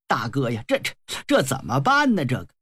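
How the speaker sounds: mildly flustered, tripping over the first word; anxious stammer. Acted. Younger brothers ask their elder what to do, anxious. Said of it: "在旁边着急呀".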